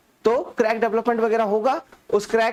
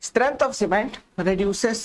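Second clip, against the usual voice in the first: very slow, word by word, for note-taking; slow dictation; much slower than usual. Shown as a demonstration. Teacher dictating a definition to students, drawn out. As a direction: dictate each word so the class can copy it. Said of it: "या फिर ऐसे लिखिए".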